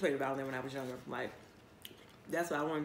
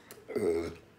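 low throat clear; 12 semitones lower than usual. Real, not acted. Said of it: "Excuse me".

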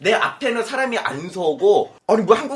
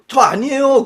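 mock protest; 7 semitones higher, 7 dB louder than usual. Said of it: "그러려고 그랬는데".

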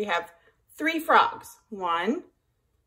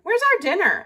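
higher, whiny asking voice; hungry cats; 9 semitones higher, 4 dB louder, faster than usual. A narrator's reading. Cats ask rooster about dinner, higher whiny voice. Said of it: "asked the cats".

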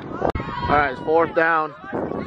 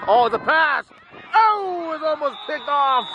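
excited; 10 semitones higher than usual. Real, not acted. Near interception during live call.

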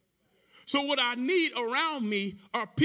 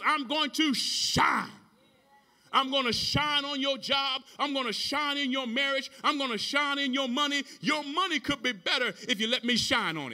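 preaching; 3 semitones higher than usual. Real, not acted. Preaches in driving, raised cadence.

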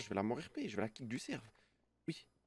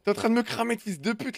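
angry shouting; 9 semitones higher, 8 dB louder than usual. Real, not acted. Angry at friend's exposure.

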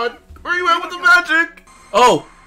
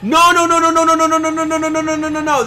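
stunned denial; 2 semitones higher, faster than usual. Real, not acted. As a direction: chant it in disbelief without stopping. Refusing what just happened.

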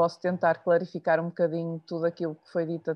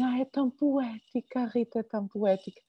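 higher, sighing mock admiration; imitating gushing listeners; 4 semitones higher than usual. Listeners telling Rita she is poetic, mock-admiring imitation. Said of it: "as pessoas ouvem-me e dizem".

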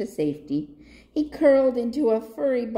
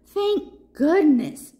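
relieved; 8 semitones higher, 7 dB louder, slower than usual. A narrator's reading. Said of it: "Papaya said to himself".

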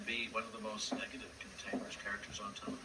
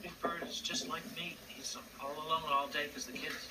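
put-on higher, a little boy's sad voice; child's voice; 6 semitones higher than usual. A little boy tells his mother why he's sad, in a small high voice. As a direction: lightly voice a lonely four-year-old.

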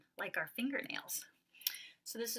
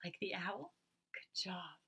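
unvoiced hushed praise; whisper; 8 dB quieter than usual. Real, not acted. Teacher whispering praise to the class. Whispered asides between sounds.

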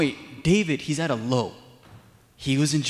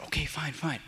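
reluctant giving in; 8 dB quieter than usual. Retold or imitated. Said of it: "at the end, he's like".

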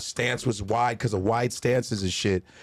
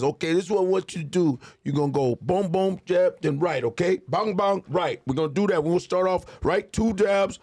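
higher, brisk coaching voice; coaching trainer; 6 semitones higher than usual. Retold or imitated. Trainer coaching the comedian on jabs, higher brisk voice. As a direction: drill the rookie through combos. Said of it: "and so he goes".

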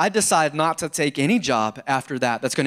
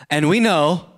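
leading the reading aloud; congregation reading. Acted. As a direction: say it together with the church. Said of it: "say it with me".

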